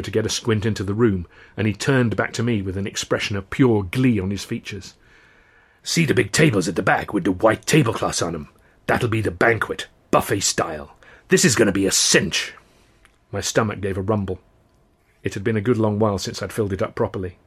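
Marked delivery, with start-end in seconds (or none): 5.8-12.5 a hint of an eager pal; eager, a touch of a scheming buddy; lightly voiced excited friend; lightly voiced Ron.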